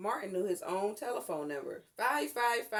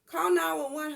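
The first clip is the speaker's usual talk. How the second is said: louder, higher firm command; urgent instruction; 8 semitones higher, 8 dB louder than usual. A narrator's reading. Mother telling daughter to call for help, urgent order. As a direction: order her daughter to the phone. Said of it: "her mother instructed".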